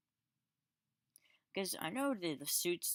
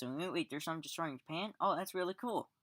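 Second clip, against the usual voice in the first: imitating his own first reaction, pitched up and eager; mock excited reaction; 3 semitones higher than usual. Reviewer acting out his first reaction to the monster, mock excited. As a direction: replay the thrill of first seeing the monster, a bit hammed-up. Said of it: "That's what I thought the first time I saw the guys".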